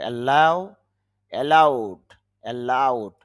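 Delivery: অ্যালাউ and অ্যালাউড with pressed second syllables; stress on LAU. Shown as a demonstration. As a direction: lean on লাউ in অ্যালাউ, অ্যালাউড. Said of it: "লাউর মধ্যে চাপ দিতে হবে". (অ্যালাউ, অ্যালাউড-এর লাউ অংশে চাপ)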